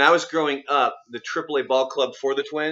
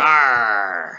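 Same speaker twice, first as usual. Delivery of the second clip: growl; 2 semitones lower, 5 dB louder than usual. Acted. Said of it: "what, what is this?".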